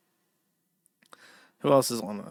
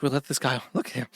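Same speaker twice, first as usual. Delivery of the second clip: panicked higher voice of the review staff; mock partnership reviewers; 4 semitones higher than usual. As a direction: play the nervous reviewers, pitched up.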